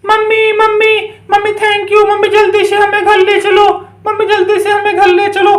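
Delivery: lightly voiced little child calling mummy; rescued child. Rescued children ask mummy to go home, mildly pleading. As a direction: call out in a small child's drawn pleading.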